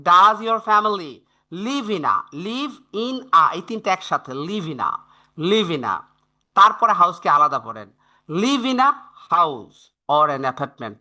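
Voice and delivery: "live in a" run together as one chunk, then "house" apart; linked chunking. Shown as a demonstration. Teacher drills students on linking live in a. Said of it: "কিন্তু আপনি যদি এভাবে পড়েন".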